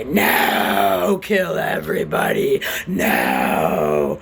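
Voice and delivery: loud hammed-up shouting; mock shout. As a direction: yell it like a mock tantrum. Acted outburst.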